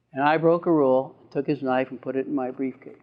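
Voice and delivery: normal talking voice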